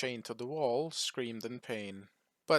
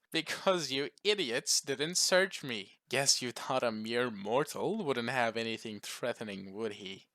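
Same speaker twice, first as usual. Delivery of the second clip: mirthful taunt. Acted. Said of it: "with mirth in his voice".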